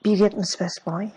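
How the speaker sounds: soft, quiet put-on woman's voice; man playing a woman softly on the phone; man doing a woman's voice. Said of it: "Oğlum ben kadın sesi yapamam ki".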